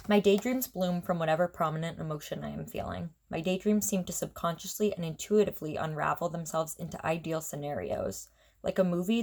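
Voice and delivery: even, measured reading aloud; prose poem reading. Real, not acted. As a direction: read your own prose poem aloud, voice dropping at sentence ends. Reads own prose poem aloud.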